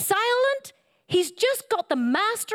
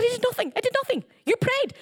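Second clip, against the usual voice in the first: high innocent protest; 8 semitones higher, faster than usual. Retold or imitated. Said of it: "I said".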